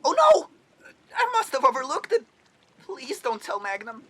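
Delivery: panicked robot squeal. Acted. Robot caught, pleading.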